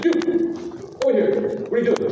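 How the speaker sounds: mock stern principal shouting across the cafeteria. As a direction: call him over like an angry principal. Principal catches him, stern yell.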